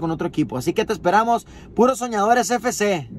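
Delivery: invitación recitada de corrido; anuncio promocional. Real, not acted. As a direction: leer una convocatoria deportiva con energía. Lee invitación del equipo. (locución de anuncio para un equipo infantil)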